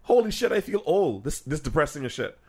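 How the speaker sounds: mock thrilled veteran rapper; high excited old-head. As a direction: voice jumps up, amused. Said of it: "He's like".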